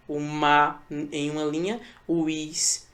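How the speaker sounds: "ma" e "is" ditos como pedaços isolados; palavra separada. Shown as a demonstration. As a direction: separe "mais" em "ma" e "is". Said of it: "sendo separado no fim de uma linha". ("ma", pausa, depois "is" isolado)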